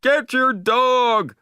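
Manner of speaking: high, loud, slow angry order; angry demand. A narrator's reading. Beachgoer demanding the owner get Marley, angry slow shout. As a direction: draw each word out in outrage.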